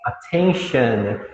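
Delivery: very slow "attention" ending in "shun"; correct English pronunciation. Shown as a demonstration. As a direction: draw out "attention", weak final vowel. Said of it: "Atenção". ("attention" bem devagar, com som de "an" no final)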